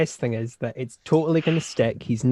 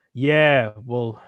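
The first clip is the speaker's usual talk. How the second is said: sarcastic. Retold or imitated. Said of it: "He doesn't get sarcasm".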